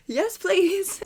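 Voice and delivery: high, loud retold acceptance; mock eager reply. Acts out her own eager reply.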